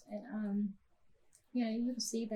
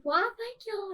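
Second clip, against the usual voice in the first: polite thanks; 12 semitones higher, 5 dB louder than usual. Retold or imitated. Mother snapping back, thanking owners.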